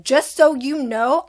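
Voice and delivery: a slow, pointed warning; firm warning. Retold or imitated. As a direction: tell her straight so she hears it. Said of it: "But I was like".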